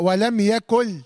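slow "يكن" ending in l, as "yakul"; noon turned lam. Shown as a demonstration. Teacher showing students assimilation, chanting "يكن" as "yakul". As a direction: replace the final n of "يكن" with a lam. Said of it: "لام، وبعدين اضغمها".

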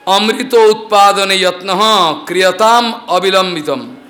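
slow chanted verse, each word weighed; sanskrit recitation. Acted. Storyteller reciting the Lord's verse, slow and chanted. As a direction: intone the scripture line slowly.

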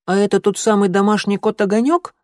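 high squeaky kitten voice. A narrator's reading. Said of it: "пискнул белый котёнок".

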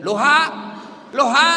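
"loha", halo with its syllables swapped; comic backwards phone greeting "loha"; reversed hello. Retold or imitated. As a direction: call "loha" loudly, rising on the last syllable. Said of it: "bukan halonya terbalik".

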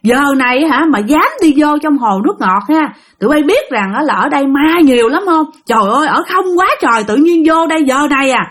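a touch of adult reprimand; scolding. Retold or imitated. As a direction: scold the kids like a stern patrolman. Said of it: "mấy ổng la quá trời".

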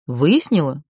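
sweeten the voice further. A narrator's reading. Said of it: "Голос Дейтара стал ещё ласковее".

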